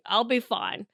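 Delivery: soft, understated self-reassurance; quiet, falling resignation; subdued reassurance. Real, not acted. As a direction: say it softly, half to yourself.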